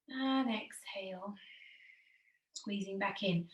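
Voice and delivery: slow, breathy near-whisper; whispered exhale cue. Shown as a demonstration. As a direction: let the word exhale out with the breath.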